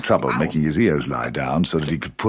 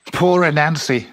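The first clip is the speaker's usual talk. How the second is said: Rabbit's voice; 8 semitones higher than usual. A narrator's reading.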